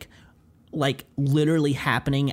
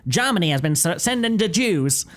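slow, measured wartime announcer; old radio newsreader; 3 semitones higher than usual. Retold or imitated. Friend parodying old radio news, slow announcer voice. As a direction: read grim headlines like an old broadcast. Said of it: "super slow because their old microphones".

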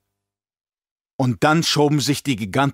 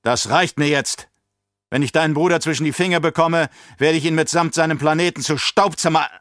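angry emperor; 5 semitones higher than usual. Acted. Furious emperor threatens Alia.

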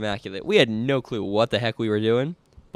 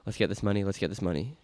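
softer, low private mutter; muttered under breath; 4 semitones lower, 8 dB quieter than usual. Retold or imitated. Runner to himself on the start line, muttered chant. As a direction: mutter it to yourself like a ritual. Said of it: "mutter under my breath".

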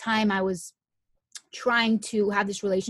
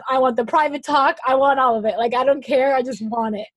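loud, emphatic list of wants; gleefully greedy, punching each want; eager insistence; 4 semitones higher, 7 dB louder than usual. Retold or imitated. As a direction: pile up the demands, louder and more excited. Retells her eager demand for everything.

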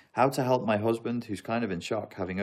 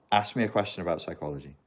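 ordinary delivery

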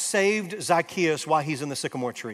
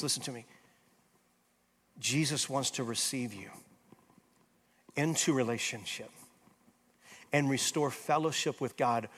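softer, lower, intimate preaching; soft altar call; 6 semitones lower, 7 dB quieter than usual. Acted. Pastor speaking softly to hurting listeners, tender appeal. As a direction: draw each listener close, gently.

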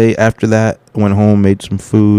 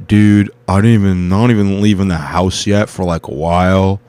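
lightly voiced laid-back stoner; a hint of a lazy stoner, loose and easygoing; imitating the stoner host, barely shifted from own voice; stoner impression. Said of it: "the stoner guy's like".

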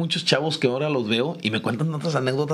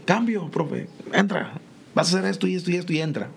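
fast, higher, rattled-off orders; quick sideline instructions; 4 semitones higher than usual. Retold or imitated. Voicing coach's sub instructions.

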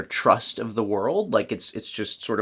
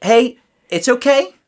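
reassuring adult voice; 4 semitones higher than usual. Retold or imitated. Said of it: "It's like".

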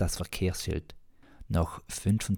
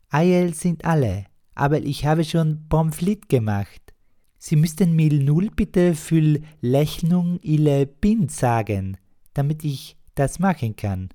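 put-on very high, loud and slow young host; innkeeper voice; 10 semitones higher, 8 dB louder than usual. Young innkeeper greeting a guest, very high, loud and slow. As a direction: greet the customer in a squeaky high voice.

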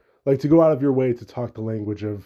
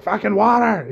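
mock furious dad; 8 semitones higher, 4 dB louder than usual. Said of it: "He's like".

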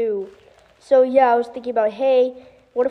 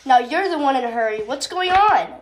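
quick, a touch louder, pitch rising at the end; half-hearted yell at a hurried friend; mild yell; 3 dB louder than usual. Acted. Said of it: "yelled Dry Eyes".

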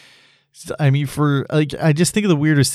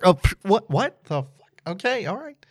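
pitched-up baffled rejected dater; high mock bewildered reaction; 8 semitones higher, 5 dB quieter than usual. Rejected speed dater caught off guard, high and baffled. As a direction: play the startled dater getting dumped, voice high. Acted reaction to getting swiped.

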